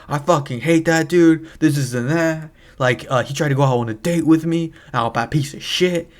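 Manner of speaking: mock exasperated rant; ranting sister. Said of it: "she was just ranting to me".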